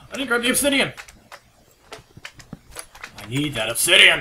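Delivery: loud, frantic cry; distraught shout. Real, not acted. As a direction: yell in panic. Losing obsidian, distraught.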